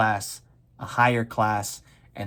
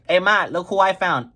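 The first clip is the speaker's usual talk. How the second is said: louder, higher proud call; showing off to mom; 7 semitones higher, 6 dB louder than usual. Acted. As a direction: call out to mom with a big find. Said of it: "take it to my mom and be like".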